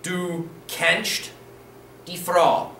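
"Du kennst die Frau" with a clear -st on "kennst"; model answer. Shown as a demonstration. Teacher revealing the answer to students, clear German. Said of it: "Follow the rules".

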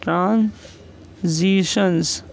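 ट्रांजिशंस drawn out very slowly; slow dictation. Shown as a demonstration. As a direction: stretch it for the learners. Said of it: "next है इसके अंदर हमारा ट्रांजिशंस".

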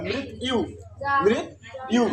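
"মৃত ইউ" split as mrit, then iyu; demonstrated pronunciation. Shown as a demonstration. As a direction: break "মৃত ইউ" in two, mrit. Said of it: "তাহলে উচ্চারণ কি হবে".

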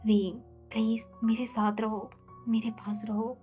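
soft, hushed pleading, almost whispered in places; tender plea. Acted. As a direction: beg her gently to stay. Husband pleads with Wing to stay. (धीमी, कोमल विनती)

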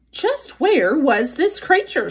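slow, suspicious sly fox. Acted. Fox asks.

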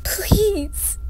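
a breathless, desperate whisper; whispered plea. Acted. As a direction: beg in a whisper. Begging him to stop it.

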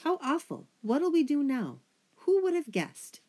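high, loud, squeaky alarm; panicked mice squeaking all at once. A narrator's reading. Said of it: "a buzz and a squeak".

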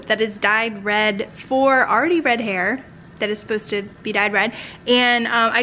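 speaking behind fingers; muffled through covering hand; hand over mouth. Real, not acted. Seen 0: Fingers cover her lips 0.1–0.6, then the hand waves away.

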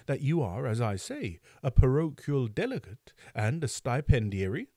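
pompous, rising indignation; indignant beadle. Acted.

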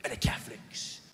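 mock hard-man documentary presenter; Danny Dyer. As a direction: deliver it to camera in weighty, separated phrases. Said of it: "he's talking to the camera".

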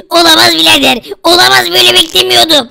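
a hammed-up cry of horror; dismayed cry. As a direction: shout it in dismay. Experiment goes wrong.

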